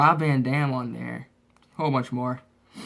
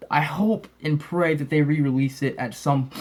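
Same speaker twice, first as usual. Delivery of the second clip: stuffy, sniffly voice; sick. Real, not acted. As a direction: talk like you have a cold. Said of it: "I'm a little bit sick".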